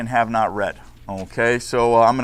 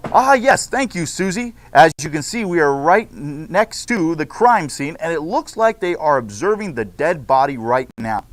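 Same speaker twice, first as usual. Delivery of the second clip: bright, announcing host read; news anchor. Acted. Teacher reads class news script to students, anchor style. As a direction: open the broadcast like a TV host.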